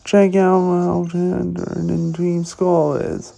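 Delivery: fake tough gangster. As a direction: play a cocky Team Skull grunt. Voices Team Skull grunts.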